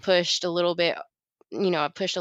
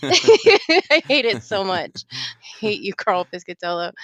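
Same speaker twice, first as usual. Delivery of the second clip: playful hate; 3 dB louder than usual. Real, not acted. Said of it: "I hate Devil's Taint".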